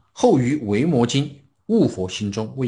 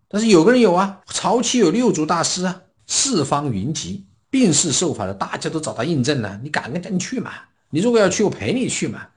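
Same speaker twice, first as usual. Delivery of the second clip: higher, louder, keen persuasion; eager urging; 7 semitones higher, 4 dB louder than usual. Retold or imitated. Xuance urges Xuanjue to see the Sixth Patriarch, eager and raised. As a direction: talk him into coming along, excitedly.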